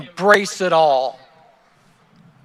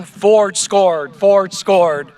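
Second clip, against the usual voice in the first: mild mock yell, a little raised; retold yell; 3 dB louder, much slower than usual. Speaker recalls neighborhood kids celebrating a touchdown, restrained retold yell. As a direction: lightly imitate excited kids yelling.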